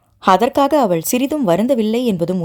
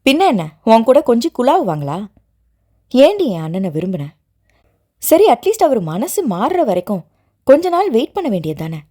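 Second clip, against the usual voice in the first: furious; 2 semitones higher than usual. Acted. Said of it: "என்று ஆவேசமாக கேட்டாள்".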